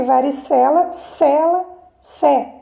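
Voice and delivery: teacher isolating "sé" in "varicela"; stressed syllable shown. Shown as a demonstration. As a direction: break "varicela" down to "cela", then "sé". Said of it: "é a sílaba mais forte".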